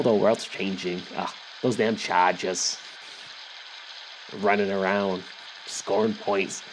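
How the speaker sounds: lightly voiced grumbling Boston grandma; a hint of a chain-smoking, complaining granny; mock old grandmother. Old grandmother blaming the world and the Chargers, mock grumbling. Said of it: "one of those old grand-, grandmothers".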